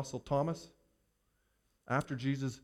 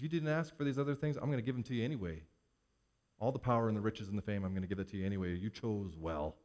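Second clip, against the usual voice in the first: growing softer and lower, slowing at the end; tender approval; 4 semitones lower, 4 dB quieter, faster than usual. Acted. God to Solomon, quietly pleased and tender. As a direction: settle into a quiet, approving blessing.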